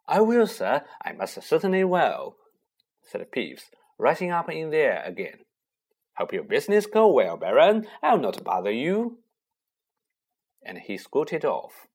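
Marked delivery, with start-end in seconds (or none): 0.1-9.2 groveling. Acted. Peeves groveling to Baron.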